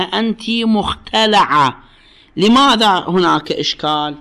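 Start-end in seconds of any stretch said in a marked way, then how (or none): 0.0-1.8 مختلعة with a fatha on the L, slow, muxtelaʕa. Shown as a demonstration. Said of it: "لكن بالفتح إذا قالها". (مختلعة بفتح اللام ببطء)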